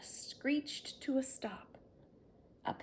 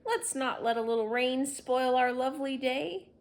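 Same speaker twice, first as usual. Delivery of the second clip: cheerful; 4 semitones higher, 8 dB louder than usual. Acted. Harry cheers everyone up.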